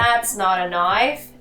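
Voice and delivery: mild Australian try at "knife"; Australian accent attempt. Shown as a demonstration. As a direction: have a go at the Aussie line. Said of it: "you have to say".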